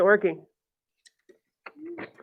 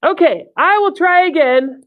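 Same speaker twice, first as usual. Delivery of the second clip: storybook character voice; 5 semitones higher than usual. Acted. Voicing Gerald in picture book.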